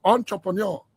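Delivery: "Entrepreneur" said French-style, on-tro-pon-yor; French pronunciation. Shown as a demonstration. Host showing Mister President the word, French pronunciation of "Entrepreneur". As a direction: give "Entrepreneur" a French ending, like "nyor". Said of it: "that is the French pronunciation".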